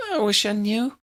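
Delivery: a slight sob in the voice; hint of a sob. A narrator's reading. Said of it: "A hint of a sob pervaded".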